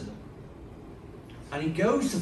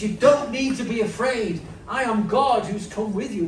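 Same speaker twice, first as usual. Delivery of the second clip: lightly voiced Jesus; 5 semitones higher, 5 dB louder than usual. Jesus voiced reassuring disciples.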